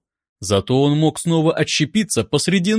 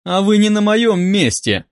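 higher, mildly angry comeback; angered retort; 5 semitones higher, 3 dB louder than usual. A narrator's reading. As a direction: snap back with a touch of anger. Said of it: "разозлился терапевт".

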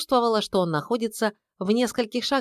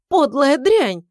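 high, loud spat-out curse; furious curse; 8 semitones higher, 7 dB louder, slower than usual. A narrator's reading. Wife cursing her husband's mistress, furious and loud. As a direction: spit the insult out.

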